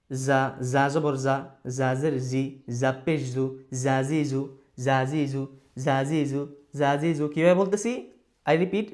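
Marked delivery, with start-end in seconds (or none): 0.1-7.2 জা, জি, জু each begun with a buzzing z; cicada-like z. Shown as a demonstration. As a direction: chant "জা জি জু" with a buzzed z, not j. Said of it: "জিজি পোকার মতো একটা sound". ("জা জি জু" ঝিঁঝি পোকার মতো জ দিয়ে)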